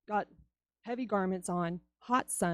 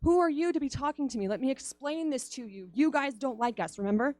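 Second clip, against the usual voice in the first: higher, indignant pushback; indignant woman; 3 semitones higher than usual. Retold or imitated. Woman at the well scolding Jesus, mock indignant. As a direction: put the stranger in his place. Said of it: "But she's like".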